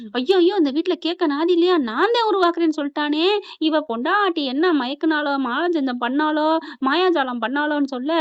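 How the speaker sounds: hammed-up mother-in-law lament; mock lament.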